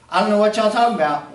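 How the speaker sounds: put-on fast, lightly Southern-accented retort; imitating Peter's Southern drawl. Preacher voicing Peter denying the accusers, in a fast Southern accent. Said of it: "I'm sure that he is throwing y'all around a lot".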